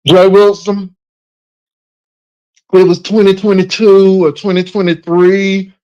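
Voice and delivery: a loud, hammed-up Mama answer; loud imitated mama. Host imitates Mama naming the year to Jay Wilson, loud and mock. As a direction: boom it out as Mama would. Voicing Mama's expected answer.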